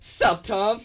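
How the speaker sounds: put-on high, loud African American accent greeting. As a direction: drop "Sup, Tom?" in a black voice. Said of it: "Just came out my black voice".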